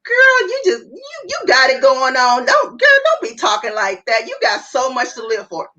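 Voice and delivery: hammed-up sassy friend cheering her up; dismissive hype friend. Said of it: "Those are not the things you wanna say".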